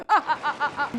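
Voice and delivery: the teacher gloating over the unfair test; evil laugh. Acted. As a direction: laugh like a cartoon villain.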